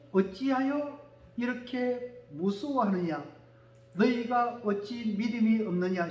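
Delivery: slow reading. Shown as a demonstration. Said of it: "시작".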